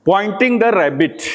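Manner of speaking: very slow teacher's prompt; slow drawn-out cue. Shown as a demonstration. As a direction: stretch each word out very slowly. Teacher drawing out an instruction.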